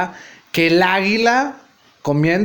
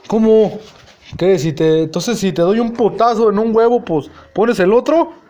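mock disbelief; 3 semitones higher than usual. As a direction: push back in amazement. Narrator mocking Nacho's piety.

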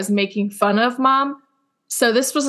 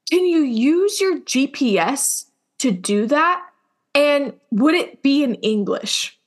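imitating mom; 3 semitones higher, slower than usual. Imitating mom's clueless question.

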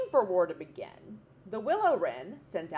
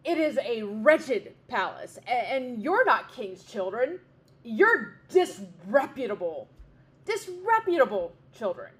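louder scornful insults; mocking bear; 5 dB louder than usual. Bear insulting the little wrens, loud mockery. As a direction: sneer the insults down at the chicks.

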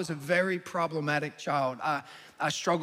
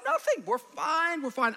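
nervous cover-up; 10 semitones higher, slower than usual. Retold or imitated.

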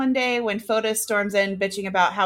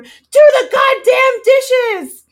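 from another room; 12 dB louder than usual. Retold or imitated. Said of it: "you just hear the wife from the other room".

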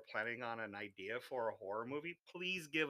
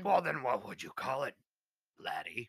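put-on Irish accent. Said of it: "not Irish either".

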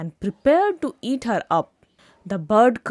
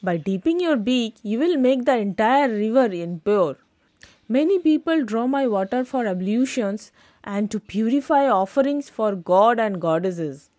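polite reasoning; faster than usual. Acted. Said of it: "Politely, the river reasoned".

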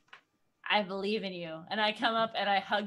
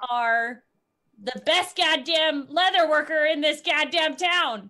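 pep talk; 3 semitones higher, 5 dB louder than usual. Acted. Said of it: "You are a wonderful person".

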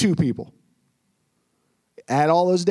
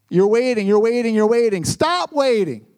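building exhortation; 3 dB louder than usual. Real, not acted. Exhorting congregation.

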